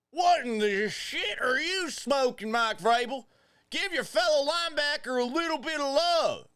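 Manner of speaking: loud, high ranting rebuke; hammed-up angry rant; mock outrage. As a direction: scold him like a wronged fan, loud and high.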